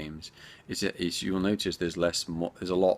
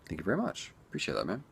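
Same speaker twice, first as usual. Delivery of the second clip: usual speaking voice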